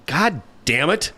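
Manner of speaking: mild mock outburst from the boss; gruff mock curse. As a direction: growl it like the scary mentor. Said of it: "he's kind of a scary dude".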